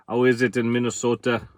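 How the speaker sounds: lightly put-on Minnesota accent, half joking; a quick, hammy Minnesota accent. Greeting a viewer from Minnesota in a mock Minnesota accent. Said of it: "terrible, terrible Minnesota accent".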